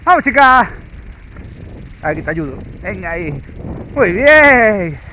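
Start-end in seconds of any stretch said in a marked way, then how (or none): 0.0-0.7 squeaky praising a dog. Real, not acted. Praising the dog during run. 3.9-5.0 high, loud dog praise; squeaky praising a dog. Real, not acted.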